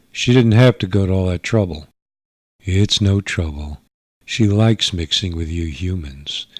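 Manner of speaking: a bored rebel toying with him; teasing alien girl. Acted. Sheila condescends to human.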